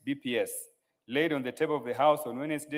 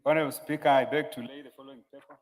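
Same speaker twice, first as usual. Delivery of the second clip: off-mic, distant voice; speaking away from microphone; mic handed over. Real, not acted. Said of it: "Can you give him the mic".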